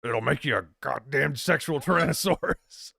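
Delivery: lightly hammed Austrian action-hero voice; playful Schwarzenegger impression; Arnold. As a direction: deliver it as a movie quote in a mock Austrian accent. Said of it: "I'm slipping into Arnold".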